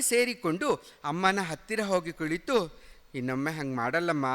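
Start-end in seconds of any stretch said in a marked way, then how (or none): 3.1-4.3 low, soft and fast, near tears; child sorry to his mother; tearful voice. Acted. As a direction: promise mother with a weepy voice. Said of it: "ಅಳುಬುರುಕ ಸ್ವರದಲ್ಲಿ ಹೇಳಿದೆ".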